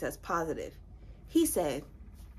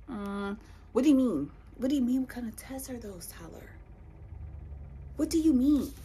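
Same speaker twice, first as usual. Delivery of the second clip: baffled exasperation; 3 semitones higher than usual. Retold or imitated. Answering boyfriend's question about the tests, baffled exasperation. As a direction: keep asking, more insistent at the end.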